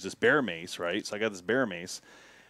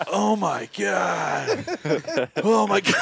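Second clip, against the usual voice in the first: rising panicked shout, higher and louder; 8 semitones higher, 4 dB louder, much slower than usual. Retold or imitated. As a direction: blurt it out in mounting alarm. Bear appears drooling nearby.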